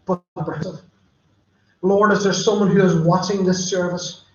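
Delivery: earnest pastoral prayer voice, unhurried; closing prayer. Acted. Pastor closing the service praying for viewers, earnest prayer. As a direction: pray over the congregation, sincerely.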